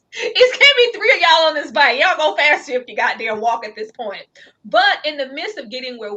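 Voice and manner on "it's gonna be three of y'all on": fast, louder mock scolding; teasing raised quote. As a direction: rib them about the bike. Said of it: "I was like".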